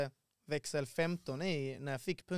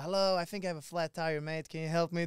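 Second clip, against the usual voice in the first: put-on best English accent; 2 semitones higher than usual. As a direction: lay on your best English accent for a stranger. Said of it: "Du bara tog med din bästa engelska dialekt".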